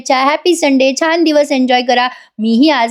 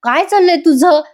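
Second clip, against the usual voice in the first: drawn-out, higher exasperated question; mildly fed up; mock irritation; 5 semitones higher than usual. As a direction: imitate an annoyed son. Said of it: "Parth चिडून म्हणतो".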